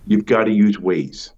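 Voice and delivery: slow, weighty advice; acted insistence, slow and firm; emphatic urging. Acted rabbi urging his advice.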